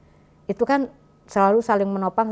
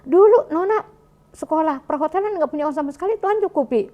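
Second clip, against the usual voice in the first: wife answering husband's doubt, raised and insistent; firm retold reply; 7 semitones higher than usual. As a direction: push back with conviction. Wife retells her firm reply.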